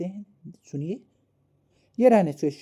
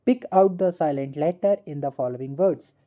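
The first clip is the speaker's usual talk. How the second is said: slow read-out; 3 dB louder, much slower than usual. Shown as a demonstration. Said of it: "teacher reads question slowly".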